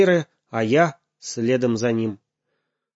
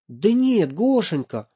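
soothing; 8 semitones higher than usual. Acted. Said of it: "попытался я его успокоить".

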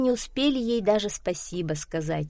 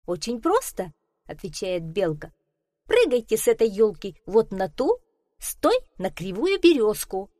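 lightly voiced quick chatty squirrel; a hint of a bright helpful squirrel; lively squirrel voice; 4 semitones higher, 3 dB louder than usual. Squirrel speaks. (слегка озвученная бойкая белка)

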